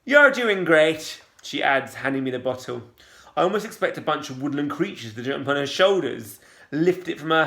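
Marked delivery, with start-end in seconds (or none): 0.0-1.2 slow, louder, rising cheer; sing-song nurse. A narrator's reading. Cheerful nurse encourages Safia, slow sing-song lilt. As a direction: encourage like a Disney heroine. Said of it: "voice always goes up at the end".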